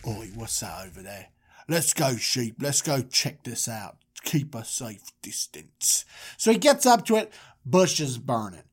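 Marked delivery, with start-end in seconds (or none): 0.1-6.0 low, soft Moses voice; wary Moses. Acted. Moses leading sheep toward a fire, low and wary. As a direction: play a cautious shepherd muttering to his flock.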